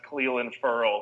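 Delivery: Clelin said KLEE-lin, Ferrell said FURL; correct name pronunciation. Shown as a demonstration. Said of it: "his name is pronounced".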